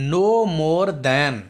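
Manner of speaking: drawn-out reading; teacher dictating slowly; slow dictation. Shown as a demonstration. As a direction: read the phrase slowly for the class. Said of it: "हाणे हिते असां वटि ॿियो sentence आहे".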